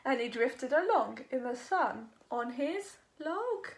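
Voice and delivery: put-on lively sing-song read-aloud for kids; animated picture book narration; storybook reading. A narrator's reading. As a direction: read it like bedtime story time.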